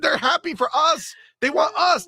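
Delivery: hammed-up high shouting, fast in places; doll voice as fans. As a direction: scream at the doll like a toddler's tantrum. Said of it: "this is you guys".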